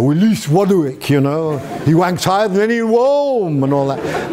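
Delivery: "Willis Wadwick" with W for every R; Pilate's R lisp. Retold or imitated. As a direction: say "wanks" and "worm" with W for R. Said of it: "couldn't pronounce his R's".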